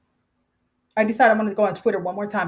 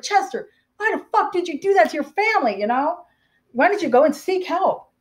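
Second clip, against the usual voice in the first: retold anger; 7 semitones higher than usual. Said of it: "I got angry".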